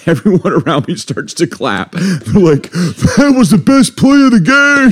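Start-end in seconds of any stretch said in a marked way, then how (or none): 2.7-4.9 high, slow cheering crowd voice; excited cheer. Retold or imitated.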